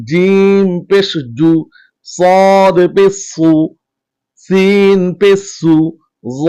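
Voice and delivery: slow, even chant of each letter and vowel; steady teacher's chant, measured and clear; letter recitation drill. Shown as a demonstration. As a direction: recite every syllable clearly for students to repeat. Drills Arabic letters with vowel marks.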